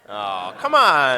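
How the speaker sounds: drawn-out coaxing oh come on; slow, loud teasing plea; pleading. Real, not acted. Urging him to do it live.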